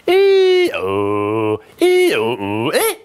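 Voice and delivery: cracking falling sound; voice breaking. Shown as a demonstration. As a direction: let the falling note break. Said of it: "there are some breaks in your voice, like this".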